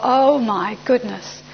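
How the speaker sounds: slow, drawn-out dread; long-drawn inner groan of alarm; dismayed realisation. Retold or imitated. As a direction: stretch each word as the trouble sinks in. Dread as the old guy returns.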